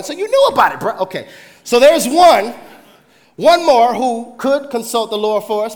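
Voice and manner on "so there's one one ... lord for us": chuckling through the quote, a louder voice; laughing king. Retold or imitated. Preacher voicing the king with a laugh.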